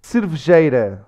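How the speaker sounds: "Cervejeira" squeezed to "srvzheira"; Portuguese pronunciation demo. Shown as a demonstration. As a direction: read "Cervejeira" with swallowed unstressed vowels. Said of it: "read through this list of words".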